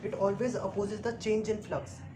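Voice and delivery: very slow, dictated statement of the law. Shown as a demonstration. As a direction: state the rule so it sticks. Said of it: "Lenz's law ये कहता है कि". (नियम को बहुत धीरे, बोलकर लिखवाना)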